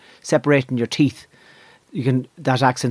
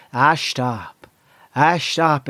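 soft Mayo accent; much slower than usual. Shown as a demonstration. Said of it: "a bit more softness in the Mayo accent".

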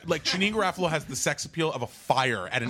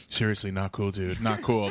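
lightly voiced preachy bearded guy, lower; a hint of a disapproving hipster tutting; mock earnest scold; 5 semitones lower than usual. Bearded friend Brian scolding.

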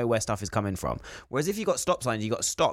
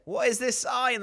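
confused; 11 semitones higher, slower than usual. Retold or imitated. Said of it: "They're like".

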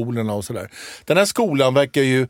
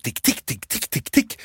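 imitated cane taps; 5 dB quieter than usual. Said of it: "och bara tick".

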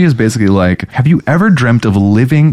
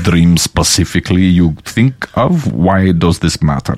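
put-on Russian accent. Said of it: "Let me be Garanin".

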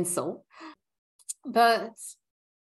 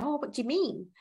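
mildly curious, higher-pitched question; tactful curiosity; 5 semitones higher, 3 dB quieter than usual. Pretend. New starter asking a coworker what she meant, gently curious. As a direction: ask it as innocent curiosity, without defensiveness. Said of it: "just curiosity".

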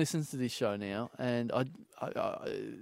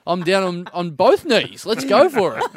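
mock eager proposal, building up; 4 dB louder than usual. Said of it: "Like I'm supposed to go".

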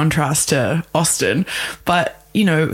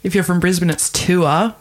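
Brisbane accent. Shown as a demonstration. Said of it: "the word tour".

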